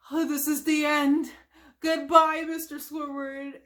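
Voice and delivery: loud, dramatic mock farewell; Mister Krabs. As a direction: announce the end, fading on the name. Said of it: "Mister Krabs announces".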